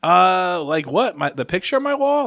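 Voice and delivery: put-on clueless goofy kid, voice climbing at the end; mock-naive question rising high; goofy dork. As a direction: play your dorky younger self, puzzled. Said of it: "me being a dork, being goofy".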